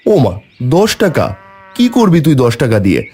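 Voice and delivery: startled disbelief, voice jumping up; surprised father. Acted. Father hears the ten taka request.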